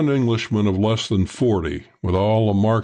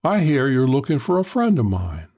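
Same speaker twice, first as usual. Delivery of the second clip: higher, lightly feminine character voice; a hint of the woman; lightly voiced woman; 5 semitones higher than usual. Woman to narrator about her friend, lightly voiced.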